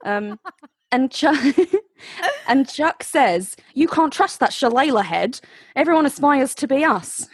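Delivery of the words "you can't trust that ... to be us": hint of unintended Australian in the vowels; accidental Australian accent. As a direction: slip lightly into an Australian accent. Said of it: "Why have you suddenly become Australian".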